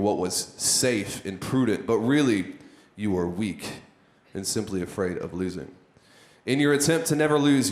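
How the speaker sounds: intense, solemn inspirational reading; stirring, weighty read of a post; dramatic reading. Acted. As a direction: read it like a motivational speech. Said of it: "read this out to you based on how it's supposed to feel".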